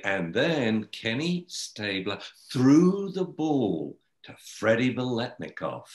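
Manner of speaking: slow, engaged sports-story read; reading aloud to baby. Shown as a demonstration. Mother reading Raiders articles to baby, slow and engaged. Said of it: "I would read".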